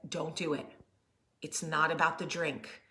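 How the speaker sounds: soft, low, calming; soft warning to the older sister; quiet. Retold or imitated. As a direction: hush her gently. Mom calming older daughter quietly.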